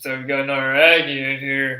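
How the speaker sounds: flat, droning, loud, low deadpan monotone. Retelling what a guy said when they met, in a low monotone voice. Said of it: "low, low monotone voice".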